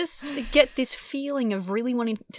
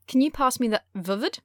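imitated Kiwi roommate, higher pitch; New Zealand accent; 4 semitones higher than usual. Roommate asking for a marker, imitated New Zealand accent. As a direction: ask with "vivid" in squashed Kiwi vowels. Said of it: "breakdowns purely about her accent".

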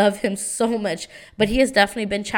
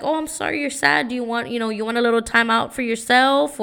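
put-on higher-pitched sympathy for a child; consoling parent; 4 semitones higher than usual. Shown as a demonstration. Parent to a sad child, lifted voice, consoling. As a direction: offer comfort in a parent's coaxing voice.

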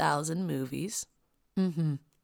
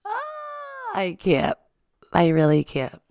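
laughing; 3 semitones higher, 7 dB louder, slower than usual. Real, not acted. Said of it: "laughing at failed ASMR".

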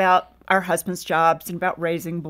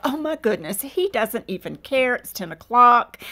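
higher-pitched, mock-annoyed wife; ticked-off retelling; 4 semitones higher, 4 dB louder than usual. Wife fuming that her husband won't answer, ticked off. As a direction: replay being a little put out. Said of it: "that just ticked me off a little bit".

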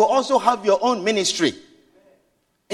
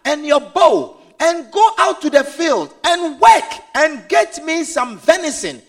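Isaac begging; 3 semitones higher than usual. Acted. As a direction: beg like a tired old father. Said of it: "Isaac said".

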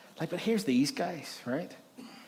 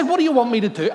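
mock exasperated shout; 10 semitones higher, 10 dB louder, faster than usual. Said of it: "I said".

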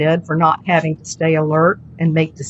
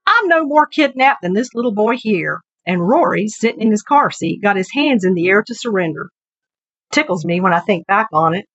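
higher, lively storyteller driver voice; chatty cab driver; 3 semitones higher than usual. Acted. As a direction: spin the yarn like a cheerful Texas cabbie. Rita finishes the story.

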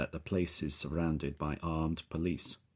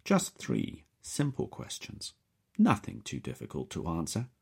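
soothing; 3 semitones higher than usual. Acted. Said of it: "says Christoph soothingly".

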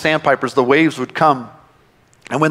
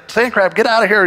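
lightly voiced frightened bird; 5 semitones higher than usual. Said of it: "He's like".

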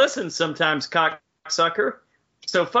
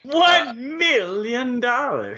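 mock awe; 4 semitones higher, much slower than usual. Mock awe at small sum.

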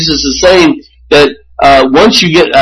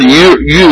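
"you" leaned on, then repeated; emphatic you. Shown as a demonstration. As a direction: hit "you" twice for weight. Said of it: "not just emphatic".

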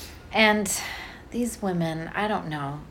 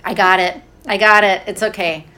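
reassuring; 8 dB louder than usual. Retold or imitated. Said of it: "I'm like".

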